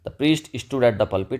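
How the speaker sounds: breathy whisper, very slow; whispered example sentence. Shown as a demonstration. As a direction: hush it out like a secret, slowly. Example sentence read slowly.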